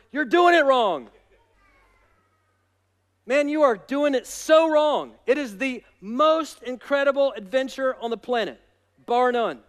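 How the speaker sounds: emphatic preaching. Real, not acted. Preacher correcting those who find Christian life boring, emphatic. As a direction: hammer the point home.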